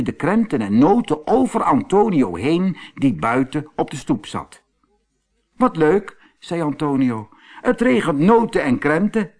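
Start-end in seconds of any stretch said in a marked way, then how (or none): 5.6-9.3 delighted. Acted. Delighted boy.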